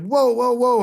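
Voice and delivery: high, astonished whoas; stunned whoa. Retold or imitated. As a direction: caught completely off guard, gasping it out. Hearing the news while driving.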